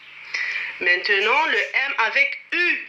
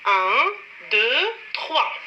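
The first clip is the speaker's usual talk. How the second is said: counting aloud; much slower than usual. Shown as a demonstration. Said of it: "Je répète".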